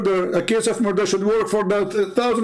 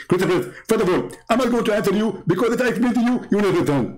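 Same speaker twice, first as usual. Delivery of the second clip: mock Zakir Naik, fast; 3 semitones higher than usual. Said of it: "Zakir Naik will answer with high speed".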